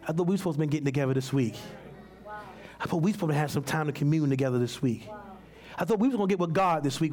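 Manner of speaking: low, subdued mild complaint; poor neglected spirit. Acted. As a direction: play a let-down spirit quietly pleading its case. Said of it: "the poor spirit over here saying".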